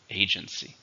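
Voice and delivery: "Agency" with the stress on A; stress on first syllable. Shown as a demonstration. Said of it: "Stresses in the first syllable".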